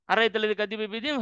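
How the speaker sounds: fast, careless recitation, moving right on; mock hurried reading of "Arayta alladhi kadhiba bid-din"; rushed reading. Shown as a demonstration. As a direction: rattle through "Arayta alladhi kadhiba bid-din" quickly without pausing to reflect. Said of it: "we'll go".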